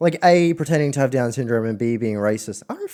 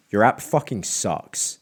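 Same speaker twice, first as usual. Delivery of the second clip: mock angry caller; 3 semitones lower, slower than usual. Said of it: "just swearing at me".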